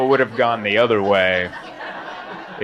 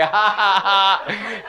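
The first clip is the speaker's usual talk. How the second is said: imitated local laugh; 7 semitones higher, much slower than usual. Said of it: "I love the laughs here".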